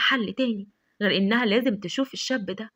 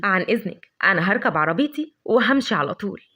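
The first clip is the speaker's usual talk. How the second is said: lower, sly mocking goodbye, drawing out وهمشي; sarcastic; 4 semitones lower than usual. Adham's mocking farewell to Lavender, low sarcastic. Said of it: "بقليل من الخبث والسخرية".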